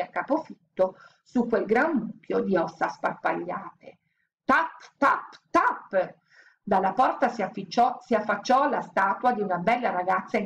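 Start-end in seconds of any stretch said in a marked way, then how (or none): 4.4-6.1 footstep sounds. A narrator's reading. Footsteps arrive.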